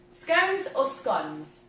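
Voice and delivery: first "scones" rhymes with cones, second "scones" with dons; two pronunciations compared. Shown as a demonstration. Baker asks which way to say scones, long then short vowel. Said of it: "if you were gonna argue it as far as how it's written".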